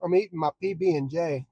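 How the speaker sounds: talking with mouth full; words round a bite of sandwich. Real, not acted. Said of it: "Trying to wanna talk with my mouth full".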